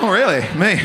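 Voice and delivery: imitating coy surprise; lightly mocking, feigned surprise; mock false modesty. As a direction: play at not knowing you're attractive. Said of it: "pretending you don't know you're fit".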